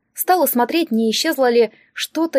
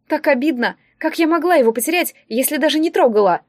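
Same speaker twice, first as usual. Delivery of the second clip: higher, mildly upset protest; hurt complaint; 4 semitones higher than usual. Acted. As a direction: protest like someone wronged and near tears. Tearful girl complains of unfairness. (обиженная жалоба, повыше)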